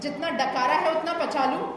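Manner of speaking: emphatic, measured stage recital with pauses between verses; poem recitation. Acted. Poet reciting her women's-seat satire to an audience, declamatory.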